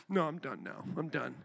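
a lightly voiced child giving up; imitating sulky daughter. Daughter refusing to cry more.

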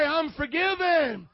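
loud, drawn-out declaration for the congregation to repeat; rallying declaration. Shown as a demonstration. Preacher leads everybody to say it, loud rallying call. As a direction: call it out high, loud and slow. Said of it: "Everybody say".

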